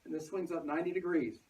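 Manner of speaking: muffled, talking through a face mask. Real, not acted. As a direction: speak with a mask over the mouth. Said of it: "I'm talking through the mask".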